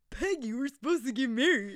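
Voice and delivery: lightly voiced, nose-blocked Nick Cage; a mild take on Cage, as if he can't breathe out his nose; Nick Cage impression. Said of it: "it's like he's not breathing out his".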